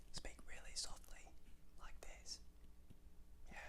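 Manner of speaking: barely audible demonstration whisper. Shown as a demonstration. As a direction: show a child how to speak very softly. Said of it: "Can you whisper?".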